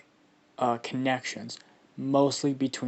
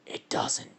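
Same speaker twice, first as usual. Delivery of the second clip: soft, husky attempt at a deep voice; 6 dB quieter than usual. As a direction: start a deep monster voice, quietly. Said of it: "I gotta do my deep voice for this".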